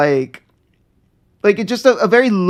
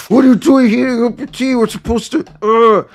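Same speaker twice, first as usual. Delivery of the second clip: higher, louder, fast mock rant; mock freak-out; 4 semitones higher, 3 dB louder than usual. Friend mimics Zuko scolding his uncle over tea, mock angry rant. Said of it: "flipped out and was just like".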